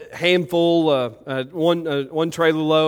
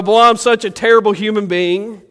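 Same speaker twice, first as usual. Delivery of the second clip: udawane użalanie; 6 semitones higher, 7 dB louder than usual. Pretend. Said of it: "wallow around and go".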